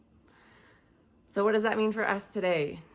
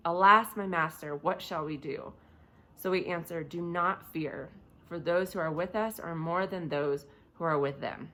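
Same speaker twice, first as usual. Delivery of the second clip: lower-keyed, measured Bible reading; scripture reading; 3 semitones lower, 3 dB quieter than usual. A narrator's reading. Preacher reading the story of Elisha to listeners, scripture reading. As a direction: read the passage aloud in a subdued, even voice.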